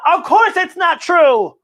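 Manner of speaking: high, loud exasperated outburst; the dog has had enough. Acted. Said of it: "Applesauce has had enough".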